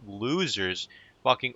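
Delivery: ordinary talk, nothing marked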